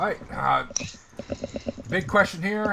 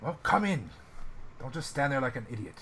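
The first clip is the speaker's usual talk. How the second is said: Russian slumlord; 3 dB louder than usual. Acted. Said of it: "sounded like a Russian slumlord".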